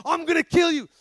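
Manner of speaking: lightly growled demon threat; growling demon. Retold or imitated. Possessed man threatening the pastor, mild imitated growl. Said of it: "starts yelling at the pastor in another voice, growling".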